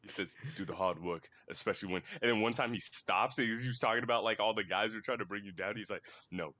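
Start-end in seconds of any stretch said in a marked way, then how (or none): 0.6-2.0 imitated British accent, lower; low, lightly put-on British voice; British YouTuber. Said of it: "He's from the U K". 6.3-6.5 lower, imitated British accent; lightly put-on British voice; British YouTuber. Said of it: "He's from the U K".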